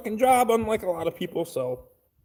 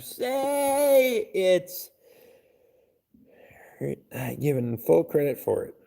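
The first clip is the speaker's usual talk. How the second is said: reading "full credit" aloud while breaking into real laughter; real laughter breaking through the words; laughing while reading; 2 semitones higher, slower than usual. Real, not acted. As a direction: crack up as you read the message out. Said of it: "I can't even read it all without laughing".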